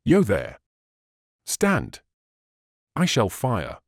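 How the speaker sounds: mildly roared warning to halt; roared challenge. A narrator's reading. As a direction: challenge a stranger from afar. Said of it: "as loud as he could roar".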